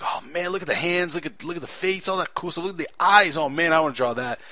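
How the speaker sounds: acted awe. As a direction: imitate being wowed, pitch lifted. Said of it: "and I'd be like".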